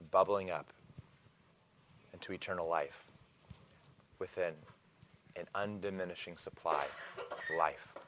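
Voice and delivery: a lightly voiced Jesus, gentle and reverent; hushed promise. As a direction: let the promise settle quietly. Jesus describes the living water.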